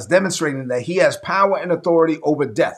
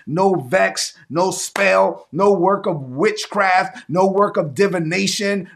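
preaching declaration; 2 semitones higher, slower than usual. Acted. Declaring against curses.

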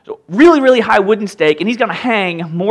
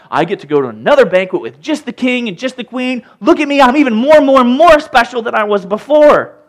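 smug courtier bragging about his invitation, higher and louder; boastful Haman; 8 semitones higher, 7 dB louder than usual. Retold or imitated. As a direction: crow like a puffed-up show-off. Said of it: "he's all like".

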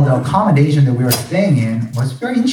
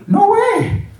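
incredulous no way. Retold or imitated. Panicking about lions at night.

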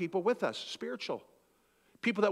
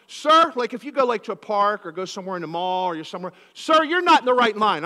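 bossy command; 2 semitones higher, 7 dB louder than usual. Retold or imitated. Mall stranger bossing the pastor about the line, loud. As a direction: order him around.

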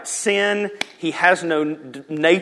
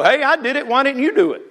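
high, loud taunting boast; lording it over; 9 semitones higher, 4 dB louder, faster than usual. Acted. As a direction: throw it down at them as a scolding challenge. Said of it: "Jesus will lord over us and go".

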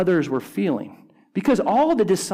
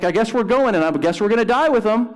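resigned but resolved, a touch higher and quicker; committed resolve; 5 semitones higher, faster than usual. Retold or imitated. Thomas telling disciples, lightly voiced committed resolve. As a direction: say it like you'll follow him anywhere. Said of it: "this guy was committed to Jesus".

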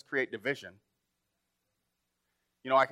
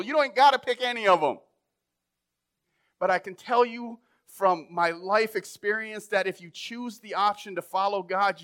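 raised, louder pulpit voice; preaching at full force; 6 semitones higher, 4 dB louder than usual. Acted. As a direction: drive it home from the pulpit. Preaching builds to a climax.

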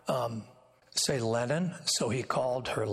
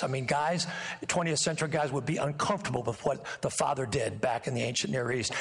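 usual speaking voice

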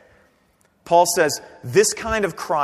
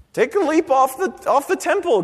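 mocking dare; 8 semitones higher than usual. Satan's temptation retold.

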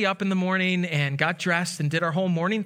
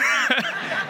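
laugh. Real, not acted. Laughing after son's quote.

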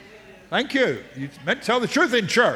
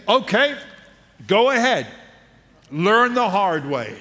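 knowing mother. Retold or imitated. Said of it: "she'd say".

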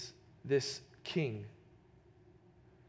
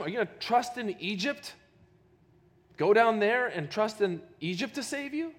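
higher sneering jab about Egypt; mocking taunt; 5 semitones higher than usual. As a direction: scoff as the envoy. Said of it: "Even he mocks him".

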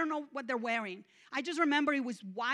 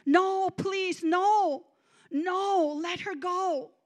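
high, loud desperate plea; frantic raised-voice begging; 6 semitones higher, 8 dB louder, much slower than usual. Retold or imitated. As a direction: plead urgently for someone's life. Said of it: "I remember immediately begging".

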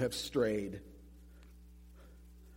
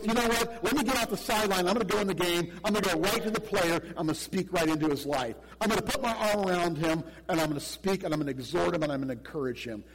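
lightly raised, pumped-up voice; a hint of a fired-up coach jumping into the game; eager coach stepping in; 5 semitones higher, 3 dB louder, faster than usual. Preacher acting out the coach who joins the players, mildly pumped up. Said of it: "This is the guy who goes".

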